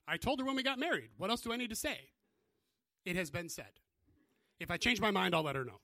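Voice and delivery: put-on loud, high stubborn old man; stubborn grandfather. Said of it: "That was my grandfather".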